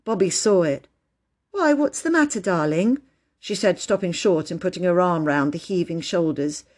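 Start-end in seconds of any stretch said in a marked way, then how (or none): 1.5-3.0 high, tender question; concerned. A narrator's reading. Bobby seeing Phyllis cry, concerned. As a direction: ask with gentle concern, starting high. Sister comforting crying child.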